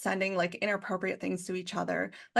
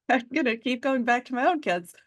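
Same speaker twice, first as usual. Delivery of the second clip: laughing; 3 semitones higher than usual. Real, not acted. Laughing as she starts her answer.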